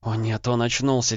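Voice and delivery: panicked stammer; babbling. Acted. Wife seeing the man wake, babbling in fright. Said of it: "залепетала она".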